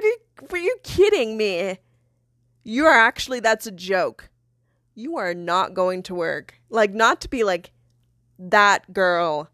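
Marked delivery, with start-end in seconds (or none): 0.0-6.6 retold incredulous anger. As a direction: replay the fight, indignant. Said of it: "I mean, we fought for a, a while".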